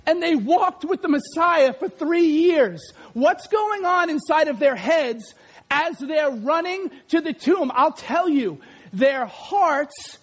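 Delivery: ordinary talk, nothing marked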